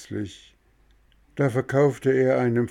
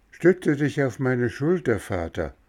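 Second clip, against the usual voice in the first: put-on boy's voice; 5 semitones higher than usual. Boy Bengele helps his father.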